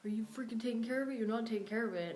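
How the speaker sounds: half-hearted impression of someone losing it; retold freak-out. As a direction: imitate a brother freaking out, mildly. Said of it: "he was just freaking out".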